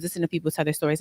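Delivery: soft echo. Real, not acted. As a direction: murmur the repeat as if to yourself. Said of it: "and I'm listening to people tell their stories".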